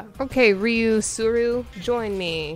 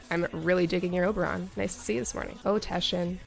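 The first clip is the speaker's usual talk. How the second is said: soft, calm yoga instructor tone; light hint of a soothing yoga instructor; yoga trainer voice; 3 semitones lower, 4 dB quieter than usual. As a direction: greet them like a gentle yoga teacher. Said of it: "I sound like a yoga trainer".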